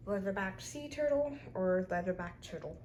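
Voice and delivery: accidental slip into a British accent; name the turtle with a light British accent. Real, not acted. Kid naming toy sea animals slips by accident, British accent. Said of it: "said leatherback sea turtle in a British accent".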